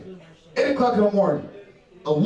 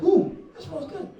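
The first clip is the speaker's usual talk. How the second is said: creepy hair sniffer; 8 semitones higher, 3 dB quieter than usual. Retold or imitated. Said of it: "Didn't touch her, like".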